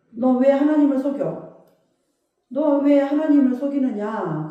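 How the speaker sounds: retold apostle's reproach, a touch forceful; stern rebuke. Peter confronting Ananias over the hidden money, stern rebuke. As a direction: confront them with a measured, accusing question. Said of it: "책망을 하니까".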